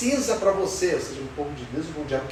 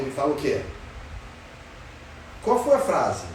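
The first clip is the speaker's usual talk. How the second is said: ordinary talk, nothing marked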